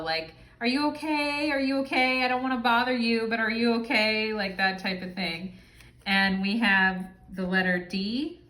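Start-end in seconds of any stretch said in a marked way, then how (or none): 0.6-4.3 higher, fretful checking-in voice; anxious puppy person. Retold or imitated. Imitating someone with a puppy personality, fretting, higher. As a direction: play the worried over-carer who keeps asking. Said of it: "the personality of a puppy".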